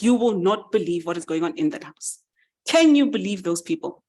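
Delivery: mildly indignant, emphatic venting; mild outrage, leaning on key words; livid mouse. Acted. Mouse venting to the chicken about the farmhouse, mildly livid. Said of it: "He is livid".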